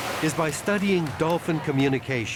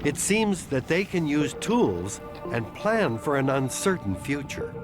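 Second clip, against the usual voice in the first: calm measured documentary narration; nature documentary. A narrator's reading. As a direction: narrate it like a wildlife film. Documentary narration of octopus intelligence.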